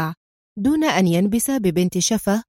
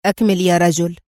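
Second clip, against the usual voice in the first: calm, lower, encouraging "أكمل"; with interest; 3 semitones lower, 4 dB louder than usual. Acted. Intelligence man urging the driver on, interested and calm. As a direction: coax him gently to go on. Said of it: "قائلًا في اهتمام".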